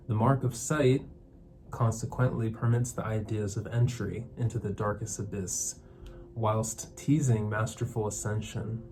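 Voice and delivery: measured spoken-word poetry reading; poem recital. Acted. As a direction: recite your own poem in deliberate phrases. Reads own poem aloud.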